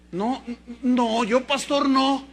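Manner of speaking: mock stubborn objection, drawn out at the end; acted refusal. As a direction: dig in against the calling. Acts refusing God's call.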